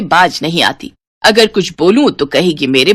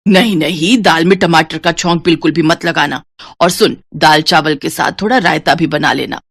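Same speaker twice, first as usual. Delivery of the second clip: a lower, scolding mother-in-law voice; mother-in-law role; 3 semitones lower than usual. Acted. Mother-in-law tells Dimpal what to cook, lower and scolding. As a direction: talk down to her like a nagging mother-in-law.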